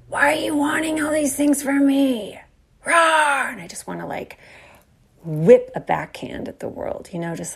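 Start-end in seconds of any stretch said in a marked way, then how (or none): 0.1-3.5 higher, put-upon complaining voice; exasperated mock outburst; mock resentful whine. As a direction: whine it like a cornered kid. Acting out resentful younger self.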